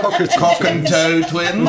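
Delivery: laughing. Real, not acted. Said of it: "Cockatoo's better, though".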